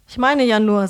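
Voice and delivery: a touch offended, pushing back; a bit huffy. Acted. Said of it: "sagt er etwas eingeschnappt".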